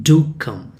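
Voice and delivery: "Do" stressed, then a fall on "come"; courteous emphasis on "Do"; polite emphatic request. Shown as a demonstration. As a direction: lean on "Do" to urge politely. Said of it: "asking them or requesting them politely".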